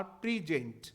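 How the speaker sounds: प्रेजेंट said "pri-JENT", short i first; verb pronunciation. Shown as a demonstration. Teacher showing students the verb's sound, प्रेजेंट as "pri-JENT". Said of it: "phonetic transcription है".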